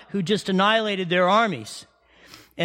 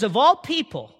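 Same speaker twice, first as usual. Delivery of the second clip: God confronting Jonah; 3 semitones higher than usual. Acted. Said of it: "God looks at Jonah and says".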